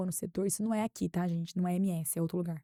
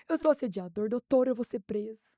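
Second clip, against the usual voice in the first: mock panic; 2 semitones higher than usual. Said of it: "Mas com uma cara assim".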